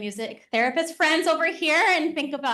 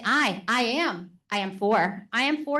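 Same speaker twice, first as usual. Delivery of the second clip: halting pyramid reading. Shown as a demonstration. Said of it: "they might say".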